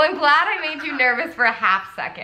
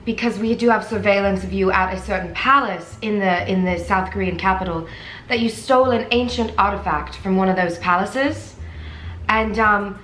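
put-on British accent; 4 semitones lower than usual. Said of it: "We're gonna do the British".

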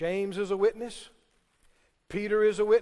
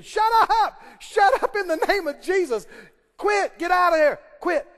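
much higher, louder rebuke; commanding shout; 7 semitones higher, 7 dB louder than usual. Retold or imitated. Preacher retelling Hagin rebuking the devil, full shout. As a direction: order the devil out.

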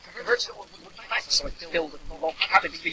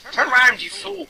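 urgent call; 9 semitones higher, 5 dB louder than usual. Real, not acted.

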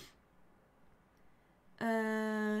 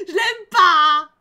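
put-on much louder, slow childish cry; loud slow outburst; 4 semitones higher, 14 dB louder, much slower than usual. Kero shouting she dislikes the girl, loud and slow. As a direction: stamp it out like a sulking child.

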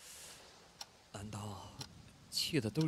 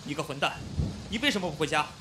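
scolding; 2 semitones higher, 4 dB louder than usual. Acted. Finds roommate soaked outside, angry scolding. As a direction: scold him for staying out in the rain.

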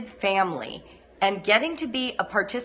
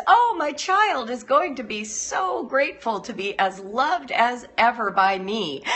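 gushing new mother. Acted. New mother imagining a grateful child, gushing dreamily. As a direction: gush with naive adoration. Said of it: "You start out with this".

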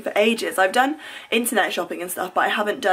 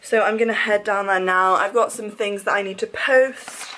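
breathless after running upstairs; panting between words; out of breath. Real, not acted. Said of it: "I don't know why I'm so out of breath".

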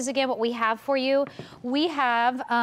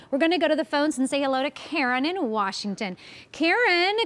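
bright caller greeting; 2 semitones higher than usual. Real, not acted.

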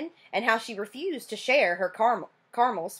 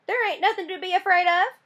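Burke voice; 9 semitones higher than usual. Acted. Burke scoffing at her fear.

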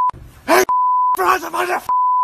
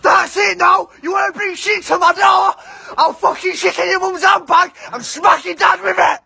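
angry shout. Acted. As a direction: shout down the phone at the culprit. Threatening revenge, shouting.

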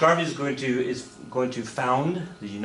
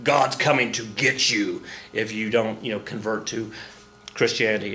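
mock fire-and-brimstone believer. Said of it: "we were like".

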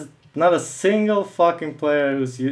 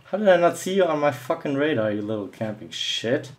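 fast, raised start, falling to a grumble; real anger; 3 semitones higher than usual. Real, not acted. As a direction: rattle off an exasperated complaint at the camper. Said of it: "I usually try not to get that angry".

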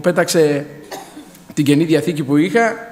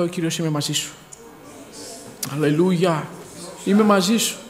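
soft divine voice; 6 dB quieter than usual. Retold or imitated. The Lord's voice on beach.

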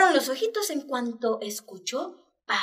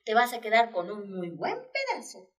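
comforting mother hen; 2 semitones higher than usual. Acted. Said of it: "lo consoló y le dijo".

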